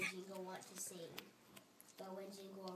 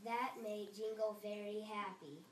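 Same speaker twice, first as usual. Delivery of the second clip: slow red part, a bit louder; 5 dB louder than usual. Shown as a demonstration. Child reading the red part slowly and louder. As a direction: draw out the red line. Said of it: "read it louder".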